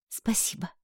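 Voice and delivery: soft whispered thanks. A narrator's reading. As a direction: breathe the thanks almost silently. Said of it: "тихо сказала я".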